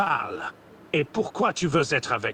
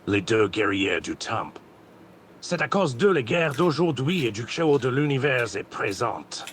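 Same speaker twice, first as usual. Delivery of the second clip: villain roleplay voice; 2 semitones lower than usual. Acted. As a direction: announce the enemies like a dark warrior. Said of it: "c'est quoi cet accent de merde".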